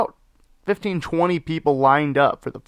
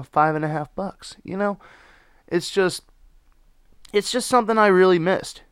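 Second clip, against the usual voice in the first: normal talking voice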